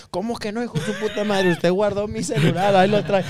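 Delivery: agudo y fuerte, reclamando; reclámale como si te hubieran robado; acusación enojada. Compa drogado acusa del robo. (compa drogado acusa al muchacho de robarle, enojado)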